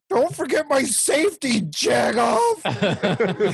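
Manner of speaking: high-pitched, hammed-up angry yell; mock pissed off. Film hero to men shooting at him, mock pissed off. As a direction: yell it high, playing outraged. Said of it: "pissed off".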